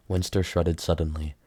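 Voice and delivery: ordinary delivery, nothing marked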